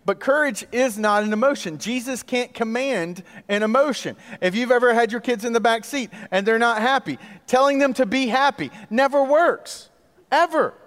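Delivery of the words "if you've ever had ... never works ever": exasperated emphasis. Real, not acted. Preacher joking about unhappy kids in the back seat, rising exasperation. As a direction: build up to an exasperated, high ever.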